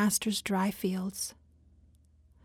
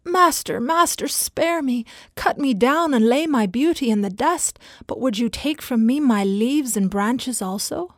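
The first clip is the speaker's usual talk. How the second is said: higher, louder desperate begging; desperate plea; 3 semitones higher, 5 dB louder than usual. Acted. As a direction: cry out to be spared. Bamboo begs the master again.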